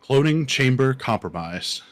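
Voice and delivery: lightly voiced robot announcement; a hint of a robot alarm voice; robotic voice. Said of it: "like, a robotic voice saying".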